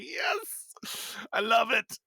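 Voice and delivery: high, gleeful little cheer; excited cheer. Retold or imitated. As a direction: cheer at the win. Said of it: "I was like".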